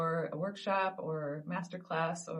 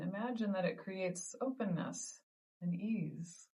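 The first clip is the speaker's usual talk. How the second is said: calm, measured meditation guide with long pauses; guided meditation. Acted. Teacher leading listeners through the ball of light technique, guided meditation. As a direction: gently guide them through each breath, unhurried.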